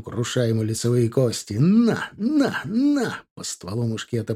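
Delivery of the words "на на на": fierce grunted shout. A narrator's reading. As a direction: yell it out as you strike. Repeated bayonet strikes.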